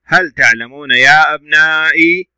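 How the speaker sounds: هل تعلمون يا أبنائي with held long vowels; deliberate model reading of هل تعلمون يا أبنائي; joined-up model reading. Shown as a demonstration. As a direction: link the syllables, lengthening the end of أبنائي. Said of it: "صوت طويل".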